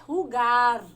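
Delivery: Rugar said the Spanish way with a rasping h at the start; Spanish pronunciation. Shown as a demonstration. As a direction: say Rugar as Spanish jugar, rasping h first, stressed on the end. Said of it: "se fala em espanhol". (diga Rugar como o espanhol jugar, com h aspirado no início)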